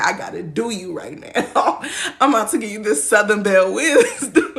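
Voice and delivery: a hint of southern belle, amused; southern grandma. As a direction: put on a mild southern grandma accent. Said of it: "they'll pull out the southern grandma voice on me".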